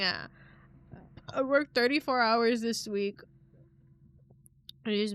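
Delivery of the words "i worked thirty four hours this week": breathy, unvoiced whisper, slow. Real, not acted. Telling the chat about her long week, slowly whispered. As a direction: whisper it slowly like a weary confession.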